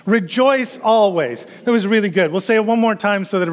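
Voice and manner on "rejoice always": slow, drawn-out, higher-pitched recitation; leading group recitation. Shown as a demonstration. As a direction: lead the room through it, stretching each word. Leading congregation saying verse together.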